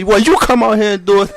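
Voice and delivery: laughing retort. Retold or imitated.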